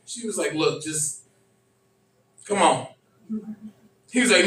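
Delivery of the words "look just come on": coaxing. Retold or imitated. Woman coaxing, retold.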